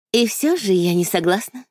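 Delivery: lightly sung-out, drawn-out vowels; melodious drawl. Acted. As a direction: drawl it sweetly and musically. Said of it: "мелодично протянула".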